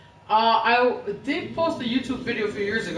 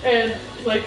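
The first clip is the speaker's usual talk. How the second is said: normal talking voice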